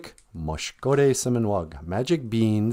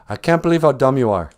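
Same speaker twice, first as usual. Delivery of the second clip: quick, louder mock-angry outburst; exasperated scolding; 3 semitones higher, 5 dB louder, much faster than usual. Mother berates Jack after tossing the beans, exasperated. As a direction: berate a hopeless son in one rush.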